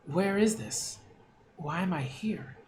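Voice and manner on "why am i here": unvoiced, puzzled whisper; hushed confused whisper. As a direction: whisper it to yourself, lost.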